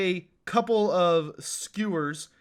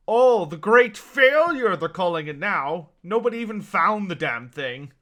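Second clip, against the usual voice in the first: scoffing merchant; 8 dB louder than usual. Acted. GM voices the merchant.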